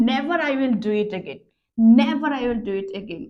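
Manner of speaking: Never opening slow and falling; slow, weighted Never at the start; stress on never. Shown as a demonstration. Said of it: "নেভার শব্দের উপরে জোর দিচ্ছি".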